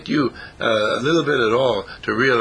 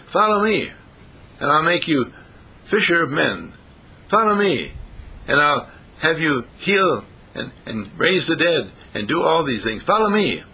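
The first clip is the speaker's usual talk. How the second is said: lightly acted summons, pitched up on each call; mild calling out; 4 semitones higher than usual. Preacher voices Jesus summoning his disciples, mildly calling out. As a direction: call followers to you, high on the key phrase.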